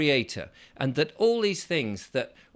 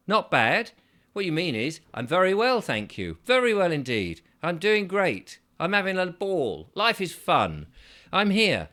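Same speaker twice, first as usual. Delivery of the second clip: bright, higher, louder enthusiasm; emphatic cheerful; 5 semitones higher, 3 dB louder than usual. Retold or imitated. Correcting a friend's not bad, loud and upbeat. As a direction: insist how great life is.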